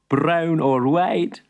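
teasing shopkeeper. Acted. Shopkeeper teases.

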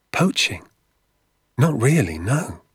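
put-on high, uncertain boy's voice; boy unsure of the word; puzzled child. A narrator's reading. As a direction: query it high, then admit not knowing.

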